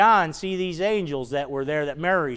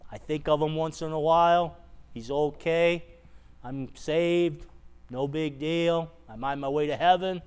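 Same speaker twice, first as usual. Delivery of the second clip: lukewarm shrug; 6 dB quieter than usual. Acted. Voicing a lukewarm believer.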